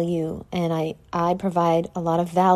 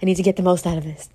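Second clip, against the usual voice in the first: louder, fast mocking inner voice; mock self-talk; 3 dB louder, faster than usual. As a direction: poke fun at her own hustle mindset.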